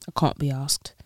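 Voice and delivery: casual British "I can't be asked" with broad "can't"; British accent. Shown as a demonstration. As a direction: say it like a Londoner. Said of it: "rate my British accent".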